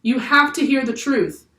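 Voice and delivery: high and loud; loudest yell. A narrator's reading. Jack yells to the whole crew, at full volume. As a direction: shout so everyone can hear. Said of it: "Jack yelled in his loudest voice".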